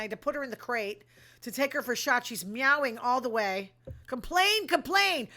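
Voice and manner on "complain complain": mock cat complaining. Voicing the cat's meowing complaint.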